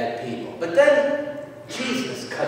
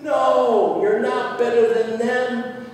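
high, loud, stretched-out rebuke; forceful raised-voice denial; emphatic yell; 8 semitones higher, 6 dB louder, slower than usual. Acted. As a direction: shout it down, drawing out the words. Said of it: "he yells at them".

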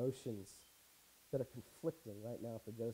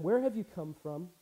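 raised, louder harsh questioning; 5 semitones higher, 6 dB louder than usual. Acted. Joseph interrogating his unrecognizing brothers, harsh. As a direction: question them sternly, pitched up. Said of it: "He spoke to them harshly".

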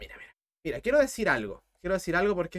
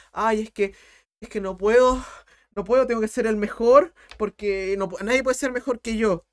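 a louder, pushy mock of a competitive student; 3 dB louder than usual. Teacher mocks a student who must beat everyone, louder. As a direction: ham up the must-be-best student. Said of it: "ese competitivismo en decir".

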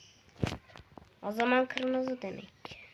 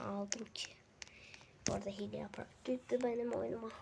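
soft whisper to keep quiet; 7 dB quieter than usual. Real, not acted. Boy whispering to viewers while mom sleeps, whisper. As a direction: whisper so mom stays asleep. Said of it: "Sessiz olmalıyım".

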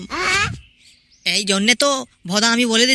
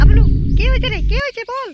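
high, loud call to Hablu; 9 semitones higher, 4 dB louder than usual. Acted. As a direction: shout across to him, curious. New arrival calls out.

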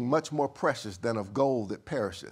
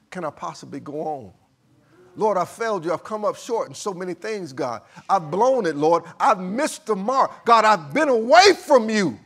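anguished prayer building to a shout; 6 semitones higher, 11 dB louder than usual. Acted. Peter crying out to the Lord over his denial, building to anguished shout. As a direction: confess louder and louder until you are crying out.

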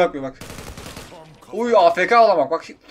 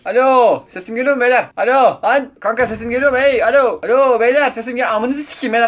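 calling out over mic; 2 semitones higher, 3 dB louder than usual. Real, not acted.

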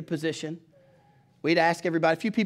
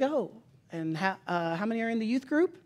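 softer, higher, hesitant polite question; sweet politeness; 4 semitones higher, 4 dB quieter than usual. Retold or imitated. Lady on the phone asking about the youth group, sweetly polite. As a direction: imitate a kind lady asking delicately. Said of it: "She's very sweet".

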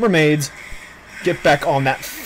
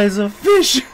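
words breaking up with laughter; laughing. Real, not acted. Streamer cracking up at the fish, laughing. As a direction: laugh through the line. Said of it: "I can't stop laughing".

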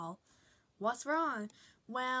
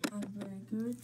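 a lower, gruff-ish reindeer voice; low character voice; 6 semitones lower, 5 dB quieter, much faster than usual. Acted. Reindeer answering Junior at the door, in a low voice. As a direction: drop the voice down for another character.

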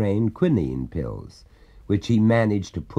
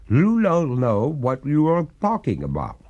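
higher, louder gurgling ghost; 7 semitones higher, 4 dB louder than usual. A narrator's reading. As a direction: gurgle it like a drowned spirit. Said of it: "said the ghost in a gurgling voice".

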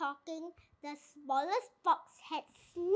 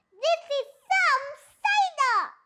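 impressed; 9 semitones higher, 6 dB louder than usual. A narrator's reading. Small fox, delighted by cider.

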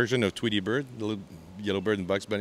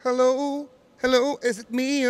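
high, louder sung croon; a famous singer; 14 semitones higher, 5 dB louder than usual. Retold or imitated. Comedian singing a famous singer's song for the host. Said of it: "Lionel Richie goes".

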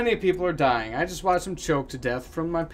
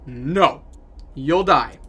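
pleading don't; 12 dB louder, much slower than usual. Acted. Pleading with Salvador not to leave.

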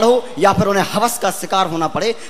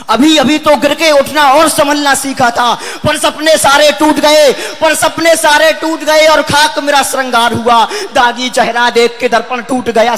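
verse building to a forceful, ringing delivery; impassioned poem recitation; 2 semitones higher than usual. Acted. Poet voicing a girl whose dreams shattered, impassioned recitation. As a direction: declaim the lines with mounting intensity.

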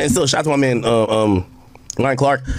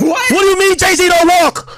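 loud, higher, slow and stunned; incredulous shout; 7 semitones higher, 4 dB louder, slower than usual. Real, not acted. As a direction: rail at the absurdity. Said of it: "Why you so triggered".

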